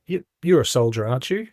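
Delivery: lightly imitated puzzlement, lifting at the end; perplexed. Retelling the old fella sizing him up, perplexed. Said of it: "he looked perplexed".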